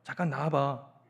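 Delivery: low-pitched, understated brusqueness; brusque boyfriend. Acted. Gyeongsang boyfriend phones his sulking girlfriend, low brusque request. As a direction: ask her out without any coaxing. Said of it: "무뚝뚝한 남자예요".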